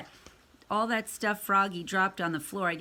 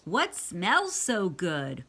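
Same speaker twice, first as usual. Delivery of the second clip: calling back; 5 semitones higher, 5 dB louder, much slower than usual. A narrator's reading. Froggy answers mother's call.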